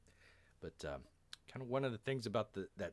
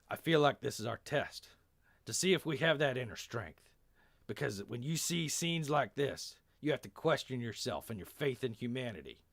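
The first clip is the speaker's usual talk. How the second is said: put-on emphatic Texan accent, raised and louder; 3 semitones higher, 3 dB louder than usual. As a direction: give a rousing speech as a Texan. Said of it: "a weird Texan accent".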